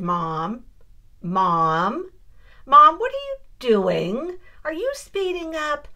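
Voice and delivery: retold alarmed calling out. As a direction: daughter calling ahead to her mom on the trail, mock alarm. Calling out to mom on trail.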